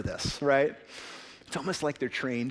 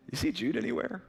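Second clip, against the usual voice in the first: sudden alarm; 9 semitones higher than usual. Retold or imitated. Parents notice son missing.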